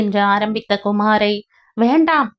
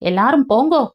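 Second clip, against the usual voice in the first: exploding; 5 semitones higher, 3 dB louder, faster than usual. Acted. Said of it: "என்று வெடித்தார்".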